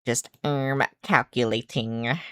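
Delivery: quiet computer voice, processing; robot voice. Pretend. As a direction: murmur like a thinking machine. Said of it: "generic robot voice that I do".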